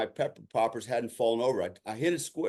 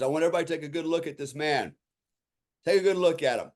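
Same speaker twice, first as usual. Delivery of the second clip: higher, projected instructor voice; retold instructor's announcement; 5 semitones higher, 3 dB louder, faster than usual. Instructor singles out a student before the class, raised announcing voice. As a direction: address the whole room, pitched up.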